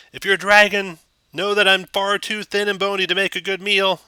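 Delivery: put-on high, loud nervous old townmaster; muffled voice through door. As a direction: call out warily through a closed door. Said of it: "you hear a muffled voice from through the door".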